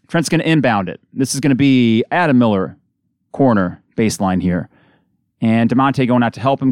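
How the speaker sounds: brisk radio game call; steady basketball announcer rhythm; live play-by-play. Real, not acted. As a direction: call the action as it happens. Play-by-play resumes.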